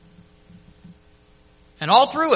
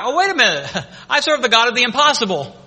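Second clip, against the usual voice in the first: laughing realization; 5 semitones higher, 7 dB louder than usual. Retold or imitated. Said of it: "And he forgot".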